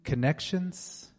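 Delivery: fervent, rhythmic prayer; healing prayer. Acted. A preacher praying healing over the congregation, fervent. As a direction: pray over them with conviction.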